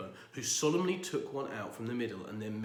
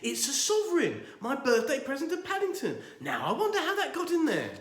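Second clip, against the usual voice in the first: chuckling; 7 dB louder than usual. Acted. Chuckling reveal.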